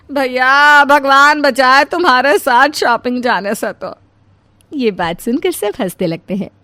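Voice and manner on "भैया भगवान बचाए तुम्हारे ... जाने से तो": 1 exasperated. Acted. Exasperated joking exclamation.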